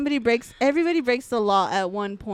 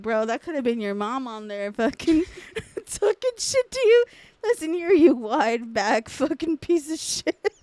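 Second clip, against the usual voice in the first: mock bullying mom; 3 semitones higher, 3 dB louder than usual. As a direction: play the cruel mom, mocking the friend. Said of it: "I was like".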